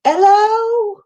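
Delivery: high, posh British-style hello; playful British greeting; mock British hello. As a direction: trill a hello like a Brit. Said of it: "Have you become British?".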